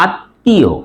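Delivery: আত্মীয় split as at... tio; no m in আত্মীয়, pause on the double t; doubled t. Shown as a demonstration. Teacher gives an example, t doubled. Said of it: "সেই বর্ণ double হয়".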